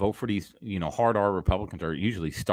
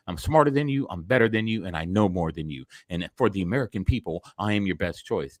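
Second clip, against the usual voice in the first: smug politician; 2 semitones lower than usual. Retold or imitated. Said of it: "to pretty much say".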